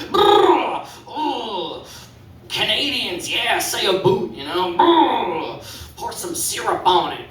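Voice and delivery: high, breathy-free mock swoon, lightly voiced; horny lady. Comic voicing a lady swooning over Canadians, lightly high. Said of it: "that's a lady being horny".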